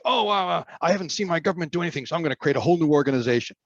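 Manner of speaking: high, fast put-on gripe; mocking people who start new groups; mock naive complainer. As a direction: rush it like an eager newcomer. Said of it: "Too many people say".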